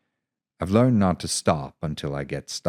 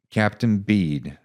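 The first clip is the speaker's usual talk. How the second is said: trying to sound formal; 5 semitones higher, 6 dB louder, slower than usual. Acted. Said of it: "doing my best to sound formal".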